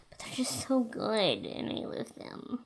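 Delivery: breathy hushed whisper, slowed down. Real, not acted. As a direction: whisper it like a guilty secret. Dreamy aside about favorite drink.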